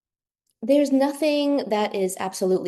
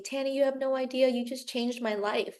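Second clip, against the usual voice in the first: higher, fast, a touch of tearful excitement; quoting her client's emotional thanks, quick and lifted; retold tearful gratitude; 5 semitones higher, 4 dB quieter than usual. Client thanking the brow artist through tears, mildly imitated and quick. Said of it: "She started crying and she was like".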